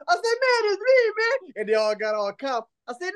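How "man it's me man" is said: very high-pitched imitated protest; high, insistent retold appeal. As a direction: plead it high, as if retelling your own disbelief. Retelling plea to frightened children.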